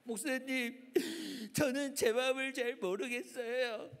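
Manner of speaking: lightly put-on tearful girl voice; troubled schoolgirl. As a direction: whimper to the pastor like a young girl.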